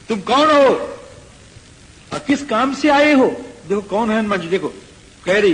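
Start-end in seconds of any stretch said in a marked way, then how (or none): 0.1-3.3 higher, louder challenge; demanding guard. Acted. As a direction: bark the question at the intruder. Lankini challenges Hanuman.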